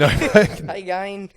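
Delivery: slow, loud Australian greeting; Australian accent. Acted. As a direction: stretch it out in broad Aussie. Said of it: "working on your Australian accent".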